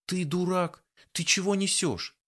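high, indignant disbelief; outraged. A narrator's reading. Offended girl snaps back at the teasing man. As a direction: push back at his nonsense.

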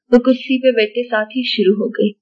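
plain reading voice

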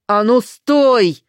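very loud, slow drawn-out command; furious shout. Acted. Старуха яростно кричит на убегающую Веру. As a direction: bellow at her to stop.

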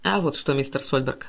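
calm banker answering the jealous husband; calm reply. Acted. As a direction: answer him coolly, unhurried. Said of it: "спокойно отвечал Каупервуд".

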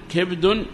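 كبد as "kibdun"; short i after k, no vowel after b in كبد; second dialect form. Shown as a demonstration. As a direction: say كبد as kibdun, fully inflected. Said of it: "هذه ثلاث لغات".

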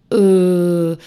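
drawn-out stifled "uh"; loud, choked hesitant moan; strangled mumble. A narrator's reading. One of the locals starts to answer, strangled mumble. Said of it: "сдавленно промычал кто-то из местных".

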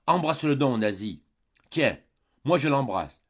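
loud, high, eager insistence; pleading urgently. Acted. Father urging Nasie to embrace Eugène, loud and eager. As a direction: push the daughter to embrace him. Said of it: "reprit-il".

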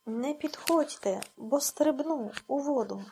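put-on understated shout of a girl on the riverbank; shouting a threat. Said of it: "Олеся закричала".

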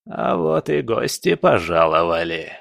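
lightly voiced gloating old sorcerer; a hint of mock hospitality; sinister old spirit. Old spirit greets his trapped guests, sinister.

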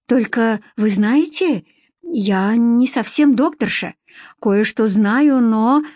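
slow, hesitant explanation; explaining on the move. Acted. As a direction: explain haltingly while walking. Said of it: "на ходу объясняла она".

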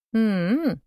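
questioning hum, face in a sweater; muffled questioning hum. Acted. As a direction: hum into mother's chest, asking. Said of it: "вопросительно промычала я, уткнувшись в её кофту".

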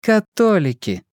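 high, slow sneer at the word; contemptuous. Acted. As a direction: spit it out with a curled lip. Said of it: "презрительно скривив губу".

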